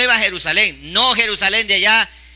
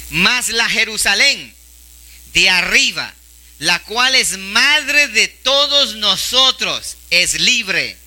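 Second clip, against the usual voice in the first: scripture reading; much slower than usual. Acted. Reads scripture aloud slowly.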